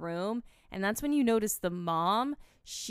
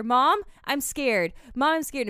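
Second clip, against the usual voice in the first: higher, louder imitation of a scared child; drawn-out childlike plea, pitched up; little kid's voice; 5 semitones higher, 7 dB louder than usual. Kid's voice breaking through Annie's to Mom, scared child. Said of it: "this little kid's voice".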